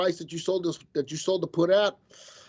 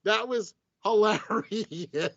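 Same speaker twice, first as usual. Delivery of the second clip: high, slow laughing wonder; 5 semitones higher than usual. Real, not acted. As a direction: still giggling at the mistake. Laughing at own slip.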